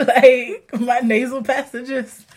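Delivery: laughing through a stuffy nose; laughing sick voice. Real, not acted. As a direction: giggle while sounding under the weather. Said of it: "I am beyond sick".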